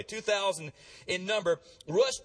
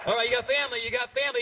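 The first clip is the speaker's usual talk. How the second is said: loud, higher call to the crowd; rallying call; 4 semitones higher, 5 dB louder, much faster than usual. Real, not acted. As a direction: pump up the room. Rallying the congregation.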